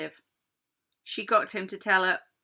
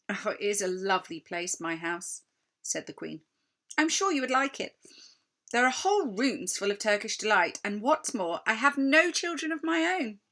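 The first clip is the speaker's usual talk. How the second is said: tempting queen. Acted. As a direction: dangle the prize.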